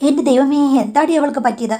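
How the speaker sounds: hammed-up alarm at bad news; fake shock. Mother-in-law hearing of her sister's death, faking shock. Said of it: "അഭിനയിച്ച് അങ്ങ് പറഞ്ഞു".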